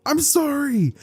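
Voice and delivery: high panicked apology; panicked yell. Acted. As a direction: blurt it out in a panic. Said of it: "he would yell out".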